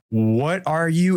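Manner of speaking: high, slow, alarmed question. Retold or imitated. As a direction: cut off in alarm. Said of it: "And I go".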